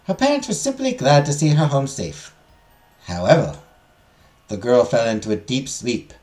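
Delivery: measured, lilting legend narration; storytelling teacher. Acted. Teacher tells students of the forbidden garden, storytelling. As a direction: tell the legend to a class with care.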